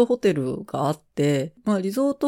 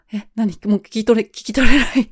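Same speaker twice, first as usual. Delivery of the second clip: bewildered; 5 semitones higher, 7 dB louder, faster than usual. Retold or imitated. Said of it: "と思って".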